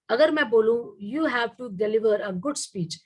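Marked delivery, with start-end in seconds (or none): 1.1-2.9 good pressed harder, the sentence slow; stress on good. Shown as a demonstration. Teacher demonstrating voice modulation to students, good stressed. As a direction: slowly lay the weight on good. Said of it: "मैंने गुड में जोर दिया".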